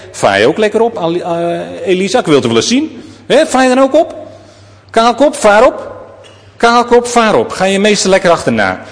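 high, jeering taunts of rowdy youths; mocking boys. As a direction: heckle the bald prophet from a crowd. Jeering youths mock the prophet.

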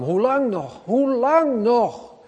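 high, slow anguished cry to God; preacher voicing David's despairing cry; desperate pleading. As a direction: plead slowly and high, worn out. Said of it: "die roept wel vier keer".

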